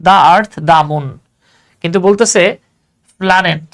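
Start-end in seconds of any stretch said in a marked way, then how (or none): 0.1-1.1 the earth, the moon drawn out very slowly; slow demo. Shown as a demonstration. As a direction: spell out each word slowly. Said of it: "লিখতে হবে the".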